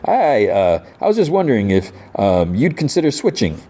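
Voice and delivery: lightly put-on friendly, lifting in pitch; a hesitant, overly friendly approach; all friendly. Businessman asking a player to switch, mildly acted friendly. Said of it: "like, all friendly".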